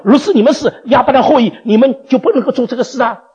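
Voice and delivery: half-laughing, pressing the point; laughing rebuke. Acted. Preacher voicing Jesus to the Jews, laughing reproach.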